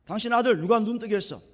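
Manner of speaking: loud acted interrogation; confrontational grilling. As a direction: demand an answer, imitating an accuser. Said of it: "막 따지는 거예요".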